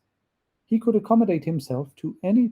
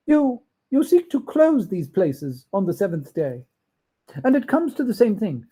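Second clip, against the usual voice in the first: put-on higher, insistent old miser; a touch of Scrooge's indignation; accusing Scrooge; 5 semitones higher than usual. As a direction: lay the charge on the ghost.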